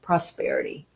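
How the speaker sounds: soft, lingering prosperity; savoring the word. Shown as a demonstration. Teacher offering viewers the word to feel, softly savoring. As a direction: let prosperity hang in the air softly. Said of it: "think about the vibrational frequency of that word".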